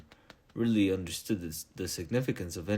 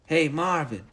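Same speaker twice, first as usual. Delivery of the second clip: higher, louder call across the room; 8 semitones higher, 6 dB louder than usual. Acted. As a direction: shout the robot's name to the corner. Calling the robot across room.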